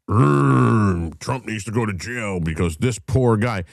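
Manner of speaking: mock grumble rising into complaint; mocking imitation. Mimicking an opponent's complaint.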